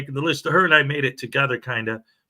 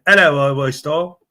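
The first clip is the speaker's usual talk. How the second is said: playful, botched Australian greeting; mock Australian accent; 4 dB louder than usual. Host greeting a chat regular, in a put-on Australian accent. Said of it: "I'm doing Australian".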